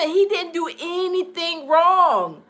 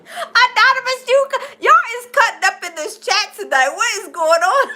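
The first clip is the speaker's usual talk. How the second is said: talking through laughter, a bit higher; laughing at the chat; amused, laughing out the words; 5 semitones higher than usual. Real, not acted.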